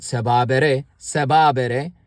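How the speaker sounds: sababere with the doubled middle said clearly twice; repeating the word. Shown as a demonstration. Teacher drilling sababere for the class. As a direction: model sababere slowly and carefully. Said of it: "a more emphatic sabare".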